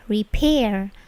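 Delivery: "repair" with a puff of air on the P; airy P burst in "repair"; plosive P. Shown as a demonstration. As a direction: say "repair" with an aspirated P. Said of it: "bunyi P-nya itu plosif".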